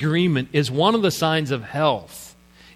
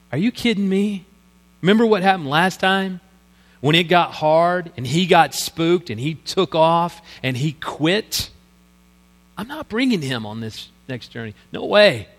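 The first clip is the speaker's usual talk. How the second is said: Paul objecting. Retold or imitated. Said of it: "There's raised voices going on here".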